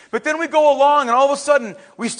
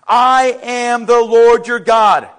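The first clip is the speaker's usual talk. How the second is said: loud, slow, clear proclamation; emphatic statement; 8 dB louder, slower than usual. Acted. Preacher voices God's statement to Israel, emphatic. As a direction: proclaim it with full force. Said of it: "he makes four emphatic statements, clear statements".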